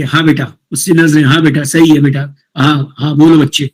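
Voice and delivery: nod along while the student talks; a calm teacher soothing an upset pupil; reassuring nods. Retold or imitated. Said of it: "हमको बिल्कुल बुत बने नहीं बैठे".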